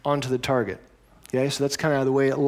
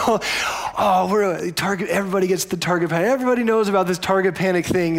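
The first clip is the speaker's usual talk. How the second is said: lightly voiced Scott; 4 semitones higher, 3 dB louder than usual. Scott explaining, amused.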